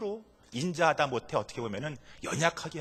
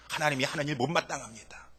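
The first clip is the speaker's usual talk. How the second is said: usual speaking voice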